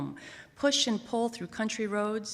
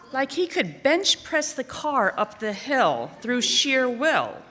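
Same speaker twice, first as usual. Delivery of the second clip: straining effort; 5 semitones higher, 6 dB louder, slower than usual. A narrator's reading. Straining to push car uphill.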